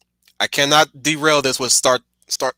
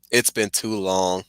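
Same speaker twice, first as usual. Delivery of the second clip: slower and softer, a rueful repeat; slow wistful echo; 3 semitones lower, 4 dB quieter, slower than usual. Shown as a demonstration. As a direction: let it trail off, regretful. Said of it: "I could do LeVar's".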